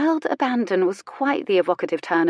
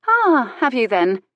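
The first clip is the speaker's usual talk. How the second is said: sugary and ironic; sweetly mocking; sweet irony; 2 semitones higher, 4 dB louder than usual. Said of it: "she said with sweet irony".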